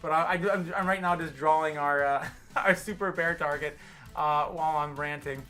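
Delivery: tipsy streamer rambling with laughs. Real, not acted. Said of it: "I'm a little tipsy, guys".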